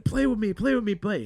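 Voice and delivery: put-on high whiny kid voice begging to play; little brother begging. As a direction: plead like a tiny kid tugging your sleeve.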